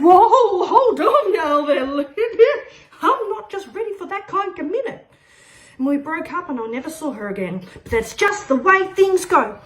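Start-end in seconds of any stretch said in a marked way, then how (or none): 0.0-5.0 higher, laughing through nervous words; mock-nervous giggling refusal; laughing backpedal. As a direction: chuckle out of the commitment. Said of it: "And I said".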